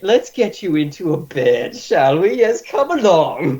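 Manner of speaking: doting healer. Acted. Healer coaxing the drunk patient into bed. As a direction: soothe him like a nurse with a child.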